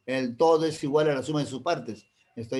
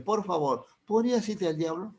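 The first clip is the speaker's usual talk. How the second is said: higher, sugary fake courtesy; mock polite; 5 semitones higher than usual. Shown as a demonstration. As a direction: ask sweetly while insulting. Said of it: "O puede ser al revés". (cortesía fingida y aguda)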